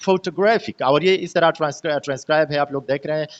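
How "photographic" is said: photo-GRAPH-ic, third syllable stands out; stress on third syllable. Shown as a demonstration. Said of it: "third syllable है".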